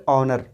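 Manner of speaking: ऑनर said vowel-first, no h; silent h. Shown as a demonstration. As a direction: model ऑनर for the class. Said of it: "क्या pronounce करेंगे?". (ऑनर, एच के बिना)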